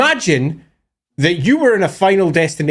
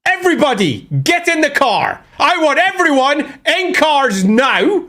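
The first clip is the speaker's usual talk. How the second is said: higher, commanding mock order to get in the cars; imitating Lilith's orders; 7 semitones higher than usual. Lilith ordering everyone into the cars, mock command. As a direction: bark out orders like a bossy goddess. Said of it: "This is what Lilith did".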